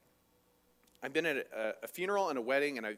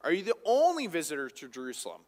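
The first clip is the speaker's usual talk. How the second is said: slow incredulous question; 3 semitones higher, 5 dB louder than usual. Retold or imitated. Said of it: "And so he says".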